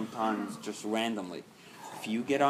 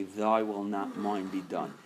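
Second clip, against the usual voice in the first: calm after a breath; 3 semitones lower, slower than usual. Shown as a demonstration. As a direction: breathe in deeply, then let the prayer out calmly. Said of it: "Take a deep breath and say".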